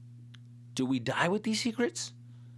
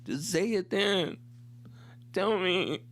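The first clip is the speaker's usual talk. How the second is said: slow, higher exasperated plea; emotional demand; 6 semitones higher, slower than usual. Retold or imitated. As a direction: draw it out, begging for the answer. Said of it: "this is how emotional I got".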